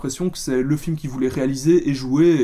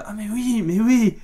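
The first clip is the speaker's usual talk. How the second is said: sudden recognition; 4 semitones higher than usual. Retold or imitated. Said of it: "j'étais".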